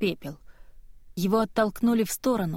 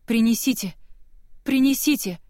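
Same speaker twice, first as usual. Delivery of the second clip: desperate cry; 3 semitones higher, 3 dB louder than usual. Acted. Dying boy, girl begs for help.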